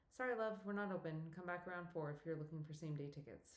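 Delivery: lightly Welsh, friendly box office brush-off; faint Welsh accent. Acted. Older Welsh woman turning a visitor away, faint Welsh lilt. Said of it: "faintest hint of a Welsh accent".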